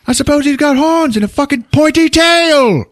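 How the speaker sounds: high, ranting mock sarcasm; sarcastic chief. Chief ridiculing the demon idea, high sarcastic rant. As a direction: scoff loudly in a high acted voice.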